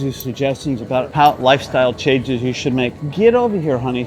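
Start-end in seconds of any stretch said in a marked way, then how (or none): 3.1-4.0 loud, high call to come back; raised-voice summons to a partner; calling someone over. Real, not acted. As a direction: call out playfully bossy, louder and higher. Calls out to straying partner.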